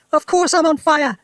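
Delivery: put-on high, loud cranky old woman; grandma hollering high and loud; yelled. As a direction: yell it back indignantly. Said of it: "she yelled".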